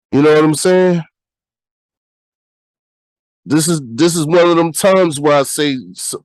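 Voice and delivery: stuffy nose from a cold; talking through a blocked nose; nasal voice. Real, not acted. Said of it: "my nasal ass voice right now".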